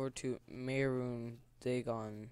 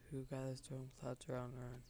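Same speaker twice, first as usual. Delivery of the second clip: whispering; 8 dB quieter than usual. Shown as a demonstration. Reading game text, first take.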